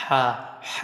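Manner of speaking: Ha breathed softly from mid-throat, not chest; breathy throat ha. Shown as a demonstration. Teacher demos the ha from the throat for students. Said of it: "tidak boleh ditekan dari dada".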